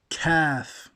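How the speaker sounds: a breathy whispered kaf; whispered letter demo. Shown as a demonstration.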